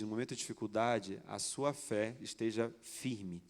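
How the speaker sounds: slow, calm divine voice; voice of God. Retold or imitated. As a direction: speak each word slowly, like God instructing. God's voice speaking slowly.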